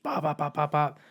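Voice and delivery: quick, even mock gunshot pops; imitated gunfire. Witness describing a street shooting, imitated gunfire. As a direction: pop out gunshots like a storyteller.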